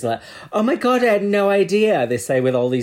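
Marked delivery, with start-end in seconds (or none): 0.5-2.1 mock surprise. Mocking queens' fake surprise.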